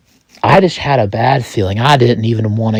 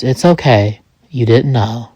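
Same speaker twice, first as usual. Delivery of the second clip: understated, gentle reassurance; calming voice. Acted. Joseph comforting the distraught narrator, mildly calming. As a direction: lightly soothe someone who feels at fault. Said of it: "with his calming voice".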